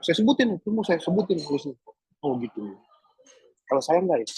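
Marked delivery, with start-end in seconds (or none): 2.2-4.3 gentle voice. Retold or imitated. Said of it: "kayak suara ngomong lembut".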